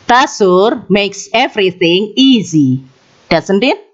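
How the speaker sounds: tag question rising at the end like a real question. Shown as a demonstration. Teacher demonstrating a real question to students, rising tag. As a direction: lift "doesn't it?" up at the end, unsure. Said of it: "suara saya menaik di bagian akhirnya".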